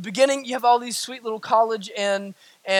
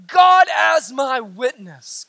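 slow, stretched-out oath; emphatic swearing; much slower than usual. Acted. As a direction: swear it hard, dragging out the words. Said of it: "he is declaring emphatically, swearing".

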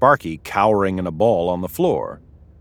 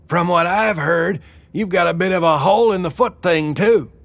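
higher, fast teasing jab; Wilma's comeback; 10 semitones higher than usual. A narrator's reading. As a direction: needle him playfully. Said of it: "shot back".

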